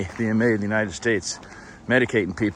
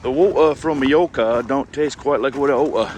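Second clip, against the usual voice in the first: mock British accent; 3 semitones higher, 5 dB louder than usual. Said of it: "a wee bit of a British accent".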